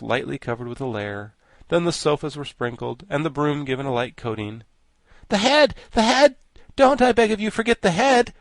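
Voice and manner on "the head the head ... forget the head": very high, loud, urgent pleading; excited cry. A narrator's reading. Wogglebug begs Tip not to forget the head, excited cry. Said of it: "cried the Wogglebug excitedly".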